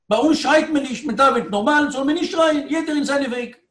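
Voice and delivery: acted insistent rabbi; firm refusal. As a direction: lay down the rule with voice lifted. Rebbe acts out his firm refusal.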